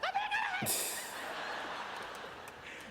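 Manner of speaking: very high-pitched giddy squeal; spazzing out. Retold or imitated. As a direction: squeal like an overwhelmed fan. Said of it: "And I'm spazzing out".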